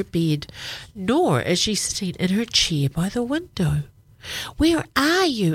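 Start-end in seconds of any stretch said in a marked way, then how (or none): 4.6-5.5 high, louder call through the house. Acted. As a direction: call out searching for someone. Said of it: "Izzy calls".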